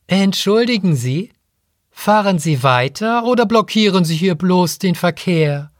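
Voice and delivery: a hint of a haughty rider; impatient woman rider. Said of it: "fragte eine Frau".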